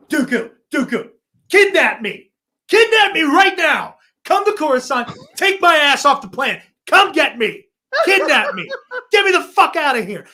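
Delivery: desperate Palpatine plea. Retold or imitated. Palpatine begging Dooku to kidnap him, hammed-up high plea. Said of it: "this is Palpatine's solution".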